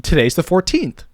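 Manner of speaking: high, slow attention-grabbing read; expressive script hook; call to action. Shown as a demonstration. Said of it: "it's a call to action".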